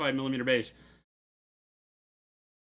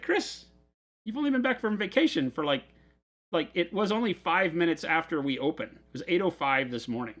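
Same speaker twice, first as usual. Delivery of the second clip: high, incredulous retelling of his reply; mock disbelief; 6 semitones higher than usual. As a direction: play up the shock at the news, pitched well up. Exasperated retold reply to Chris.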